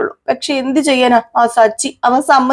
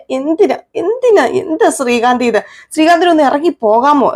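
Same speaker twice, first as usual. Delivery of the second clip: whiny complaint; 6 semitones higher than usual. Retold or imitated. Wife woken from her nap whining at her husband, exasperated higher whine. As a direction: whinge like someone dragged out of sleep.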